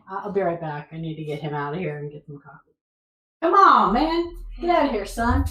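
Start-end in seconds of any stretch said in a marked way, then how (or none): 3.4-5.5 calling out. Real, not acted. Shooing the dog out loudly.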